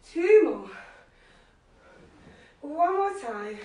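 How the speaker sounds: loud coaching shout; coach's call. Real, not acted. Instructor shouting to her class, loud coaching call.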